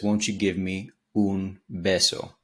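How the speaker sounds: slow line, "un" stretched before "beso"; dragged-out "un". Shown as a demonstration. Teacher quoting the singer's chorus variation, "un" drawn out. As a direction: linger on "un". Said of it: "he's kinda dragging out the un".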